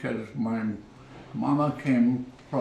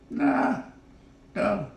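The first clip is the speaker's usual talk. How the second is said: high, dismissive nah, no; mock retort; 9 semitones higher than usual. Old man retorting to a schoolmate, high and dismissive. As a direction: brush the boy off, high and short.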